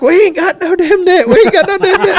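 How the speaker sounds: high-pitched exasperated holler; yelling back. Retold or imitated. Fishing buddy answering the angler's demand, high frantic yell.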